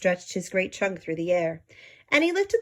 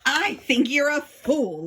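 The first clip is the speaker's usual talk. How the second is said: higher, slow sneering voice; mocking kangaroo; 7 semitones higher, 4 dB louder, slower than usual. The sour kangaroo mocks Horton, slow higher sneer. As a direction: sneer it out, scornful. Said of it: "laughed a sour kangaroo".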